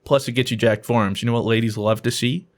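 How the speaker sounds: lightly voiced low motivational pitch; low-pitched hype talk, lightly put on; motivational speaker. Speaker pitching a forearm program to the boss, lightly voiced motivational speaker.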